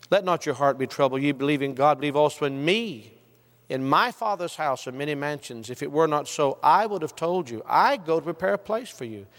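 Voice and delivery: "me", "my" and "I" picked out with emphasis; stress on Jesus' words. Shown as a demonstration. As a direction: lean on "me", "my" and each "I". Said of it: "read with the emphasis on Jesus".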